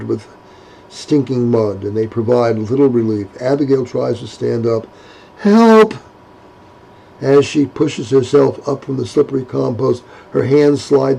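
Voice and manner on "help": shouted high cry for help; calling for help. Acted. Stuck in the mud, Abigail shouts for help.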